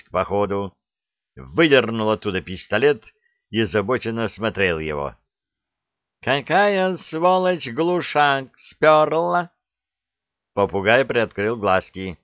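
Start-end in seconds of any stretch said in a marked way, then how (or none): 6.2-9.5 slow, high indignant demand; возмущённо. Acted. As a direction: drag it out, outraged at the theft. Кот обнаружил пропажу глушителя. (медленно, возмущённо и высоко)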